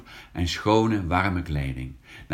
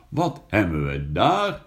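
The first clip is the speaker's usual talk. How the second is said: a touch of surprise in the farmer's voice; mildly puzzled, finding a boy in the ditch; surprised farmer; 3 dB louder than usual. Acted. Farmer finding a soaked boy in his ditch, mildly surprised. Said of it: "zegt de boer verbaasd".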